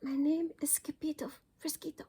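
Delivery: high whisper; very soft voice. Acted. Small dog facing the bandito, whispering. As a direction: breathe it out, barely audible. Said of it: "in a muy, muy soft voice he said".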